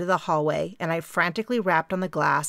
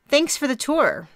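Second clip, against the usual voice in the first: higher, louder apologetic question; 9 semitones higher, 4 dB louder than usual. A narrator's reading. Di admits she missed the name, apologetic and raised. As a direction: sheepishly ask her name. Di thanks Mary.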